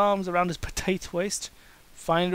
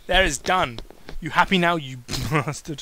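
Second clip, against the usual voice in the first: mock snarl; 3 dB louder than usual. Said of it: "The vegan wrestler snarled".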